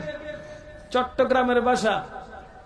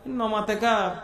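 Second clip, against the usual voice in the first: Chittagonian word; 2 semitones lower, 4 dB quieter, slower than usual. Shown as a demonstration. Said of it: "চট্টগ্রামের ভাষায় চুপ থাকলে বলে".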